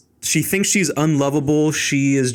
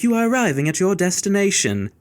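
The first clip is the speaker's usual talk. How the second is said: imitated GPS assistant voice, pitched up; higher put-on digital assistant voice; Siri; 4 semitones higher than usual. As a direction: mimic a navigation system's announcement. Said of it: "like, a Siri type thing".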